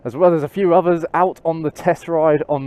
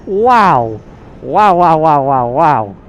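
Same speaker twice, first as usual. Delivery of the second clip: amazed wows; 5 dB louder, slower than usual. Real, not acted. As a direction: marvel out loud, thrilled by the speed. Amazed by the acceleration.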